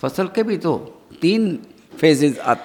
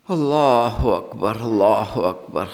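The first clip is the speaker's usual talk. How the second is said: low, very slow exclamation; drawn-out takbir; 6 semitones lower, slower than usual. Real, not acted. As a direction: let each one stretch and sink. Preacher's awed exclamation mid-sermon. (دھیمی، کھینچی ہوئی تکبیر)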